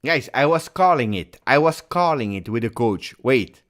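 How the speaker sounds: real excitement at calling it right; excited. Real, not acted. Excited about predicting the play.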